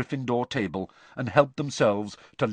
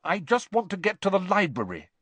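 dignified words round a mouthful; mouth full; 10 semitones higher, 3 dB louder than usual. Acted. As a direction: talk with cheeks full of sprouts. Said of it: "her mouth bulging with sprouts".

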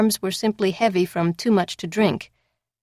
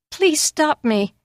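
slow, higher, tearful plea; sobbing; 8 semitones higher, slower than usual. Acted. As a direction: sob it out slowly. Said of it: "Drunk and sobbing".

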